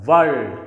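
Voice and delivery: "world" with no R sound; silent R. Shown as a demonstration. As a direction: drop the R in "world", straight to the L. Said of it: "it will be kept silent". ("world" में R silent)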